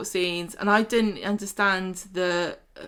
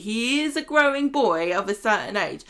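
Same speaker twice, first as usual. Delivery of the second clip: indignant telling-off. Acted.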